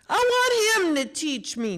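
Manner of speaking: put-on high, small child's voice; a young boy, voice gone odd; little boy voice. A narrator's reading. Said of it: "Jeremy's voice sounded funny".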